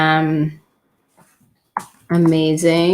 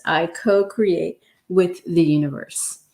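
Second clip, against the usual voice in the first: whispered affirmation; 2 semitones lower than usual. Shown as a demonstration. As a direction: whisper it, no voice at all. Third repeat of affirmation.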